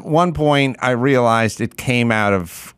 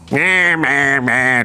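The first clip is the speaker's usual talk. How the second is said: mocking blah blah; much slower than usual. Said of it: "That's such a good impression".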